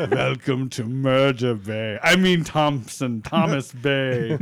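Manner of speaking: laughing mock welcome.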